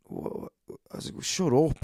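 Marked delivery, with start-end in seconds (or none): 1.2-1.8 high, louder exasperated retort; mock outburst of irritation; retold angry comeback. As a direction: act out snapping back at a heckler. Retelling his comeback to heckler.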